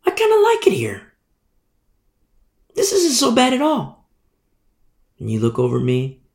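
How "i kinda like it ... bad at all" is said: high, whispered aside; whispered contentment. Retold or imitated. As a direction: whisper it, pleasantly surprised. Servant voiced in a parable.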